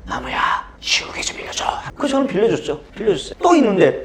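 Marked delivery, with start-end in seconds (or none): 0.1-1.6 unvoiced secret whisper. Classmate whispers from behind, asking for an eraser. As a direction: whisper it so the teacher won't hear. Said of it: "귓속말로".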